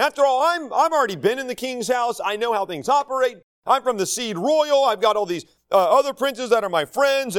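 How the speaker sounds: a touch of indignant self-importance, pitch climbing; aggrieved arrogant leader. Acted. Arrogant leader claiming he should have been king, aggrieved. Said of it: "arrogant leadership believes they have been done wrong".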